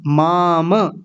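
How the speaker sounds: माम with a half म, clipped short; wrong way shown. Shown as a demonstration. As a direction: say माम as the mistake, swallowing the म. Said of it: "माम का नहीं बोलना".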